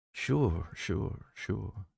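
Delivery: whispered. A narrator's reading. Frightened hostler whispers his assent to the gunslinger. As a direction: whisper it, trailing off. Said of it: "Kennerly whispered".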